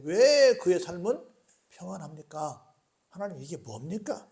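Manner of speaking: arguing a grievance with God; pleading challenge, forceful then softening; remonstrating. Acted. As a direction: press the questions like a mild protest, easing at the end. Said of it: "이렇게 막 따지는 겁니다".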